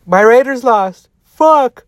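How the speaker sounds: loud, high frustrated groan; frustrated outburst. Real, not acted. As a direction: vent it, team just lost. Team lost, venting.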